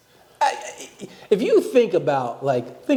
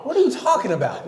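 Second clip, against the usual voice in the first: shouting; 9 semitones higher than usual. Real, not acted. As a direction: shout it out in the argument. Heated argument shouting.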